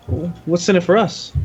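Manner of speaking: put-on high cheeky kid asking what's in it; street kid voice. DM voices kids in tavern.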